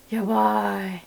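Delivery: sharp unvoiced gasp then a worried yabai; gasp of alarm. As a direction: gasp and catch yourself, talking to yourself. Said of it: "you can be like".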